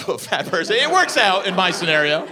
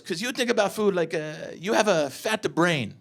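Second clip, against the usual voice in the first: imitated Italian doctor, light accent; halting English with a hint of Italian accent; broken Italian English; 2 semitones lower, 5 dB quieter than usual. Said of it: "In his, like, broken Italian English".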